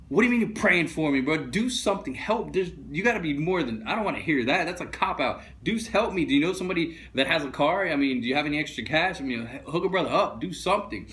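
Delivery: mock-indignant pleading, fed up with empty words; exasperated outburst. Angry retort to praying.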